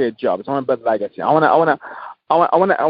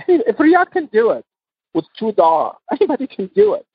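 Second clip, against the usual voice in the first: laughing; 7 semitones higher than usual. Real, not acted. Laughing as he tells the host anyone can do it. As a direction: laugh through your own name.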